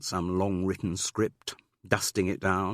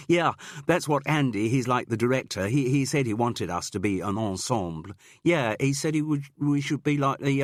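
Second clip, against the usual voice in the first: higher, louder earnest student voice; eager student girl; 6 semitones higher, 4 dB louder than usual. Acted. Girl student tells Jude what Andy said, eager. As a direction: reach for the words like a keen student.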